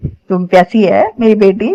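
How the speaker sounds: slow, tender fatherly coo; so lovingly. Retold or imitated. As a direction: coax her gently like a thirsty child. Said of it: "मतलब इतने प्यारे".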